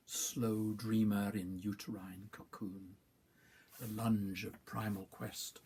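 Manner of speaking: slow, deliberate verse reading; measured recital of a list-like poem. Acted. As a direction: give each short phrase its own weight and pause. Reads third poem aloud.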